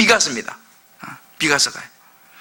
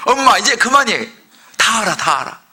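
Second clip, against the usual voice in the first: put-on teen brushing off mom. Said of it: "우리 자녀들 우리 그러는 거예요".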